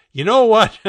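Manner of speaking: high, loud, sudden giving up; exasperated outburst. A narrator's reading. Rob gives up answering Bucky, exasperated. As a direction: burst out as if done explaining.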